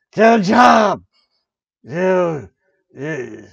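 loud mock yell; yelling at protesters. Shouting at protesters to get a job. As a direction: bark it at imaginary rioters.

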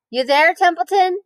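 high call across the yard. Acted. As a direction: call to the rat under the trough. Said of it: "he called".

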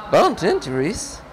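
high-pitched, wondering character voice; questioning story character. Acted. Voices Fedalin replying in story.

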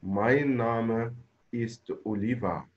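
very slow, each word stretched; slow model answer. Shown as a demonstration. Teacher models the full sentence for the class, slowly. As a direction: say it slowly so students can repeat. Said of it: "برافو".

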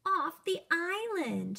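shouted. Acted. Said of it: "shouted Rupert".

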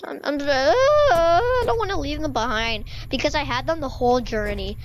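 half-joking whimper over leaving the books; lightly hammed-up sorrow; mock sad. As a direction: play at being heartbroken. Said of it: "It's gonna be sad".

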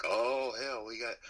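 half-hearted upstate New York redneck cop voice; mock upstate New York redneck cop. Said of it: "whatever the fuck it sounds like when they say it".

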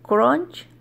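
"Crunch" said with a Spanish accent, closer to "cronch"; Spanish-accented English. Real, not acted. Mother copying her son's correction, Spanish-accented English. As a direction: try "Crunch" as a Spanish-speaking learner, ending on a questioning rise. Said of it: "mi inglés no está nada de bien".

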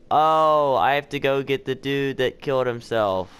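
loud, high sudden realization; surprised. Real, not acted. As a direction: blurt it out in alarm.

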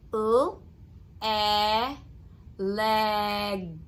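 each sound "n", "a" said separately, then blended into "nut". Shown as a demonstration. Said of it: "say the blend and then add".

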